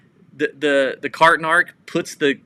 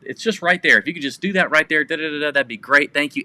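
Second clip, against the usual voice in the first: mock-courteous request, lightly pitched up at the start; imitated politeness; faster than usual. Cart vigilante asking a shopper, politely imitated. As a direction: politely nudge a stranger to comply. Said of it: "stays polite the whole time".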